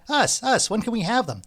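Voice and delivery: can barely wait; eager. A narrator's reading. Eager buyer bursting out.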